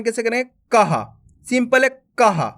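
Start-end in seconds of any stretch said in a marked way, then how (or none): 0.7-1.0 कहा as ka plus a breath of ha; visarga as ha. Shown as a demonstration. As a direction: say कहा in two beats, ka then ha. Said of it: "का के बाद हा का उच्चारण". (कहा में का के बाद हा)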